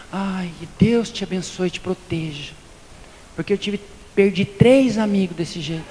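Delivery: a gloomy well-wisher predicting doom; doom prophet. Retold or imitated. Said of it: "o profeta do Apocalipse".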